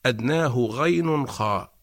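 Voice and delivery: slow chanted verse line; recited verse. Shown as a demonstration. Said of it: "يقول ابن الجزري".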